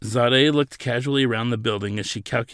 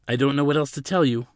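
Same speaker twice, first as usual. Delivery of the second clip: higher, helpless reply; a touch flustered, at a loss; frazzled; 4 semitones higher, 4 dB louder, faster than usual. A narrator's reading. Attendant out of answers for insistent counsel, mildly frazzled. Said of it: "he was getting frazzled".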